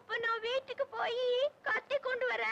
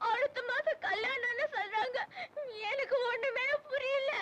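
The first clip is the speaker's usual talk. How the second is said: put-on a young woman crying over her arranged match; tearful. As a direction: voice choked with tears, close to sobbing. Girl tells of forced marriage.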